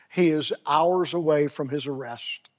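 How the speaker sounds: hushed whisper; solemn whisper to the congregation. Real, not acted. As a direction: lean in and whisper it. Solemn aside.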